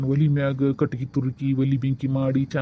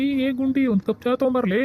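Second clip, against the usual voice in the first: high-pitched call to someone who hasn't heard; insistent high call across the house; 7 semitones higher than usual. Acted. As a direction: repeat the summons, pitched up to carry. ಅಲ್ಲಿಕಿನ್ನ ಕೇಳವಲ್ದು.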